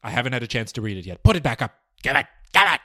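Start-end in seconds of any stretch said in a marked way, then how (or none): 1.2-2.8 pleading call. Real, not acted. Pleading with Kevin off mic.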